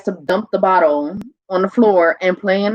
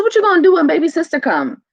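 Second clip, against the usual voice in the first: retold challenge; 8 semitones higher, 4 dB louder than usual. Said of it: "I said".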